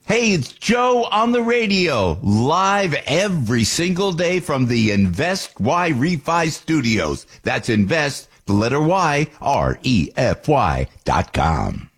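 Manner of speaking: slow, drawn-out radio announcer voice; slow radio show intro; announcer plug. Acted. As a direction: stretch it out like a station ID. Host station ID plug.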